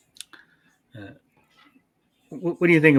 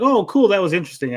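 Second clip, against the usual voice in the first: loud, high-pitched put-on enthusiasm; hammed-up "oh, cool" reaction; mock interest; 6 semitones higher, 7 dB louder, faster than usual. Voicing a reaction to the flashback.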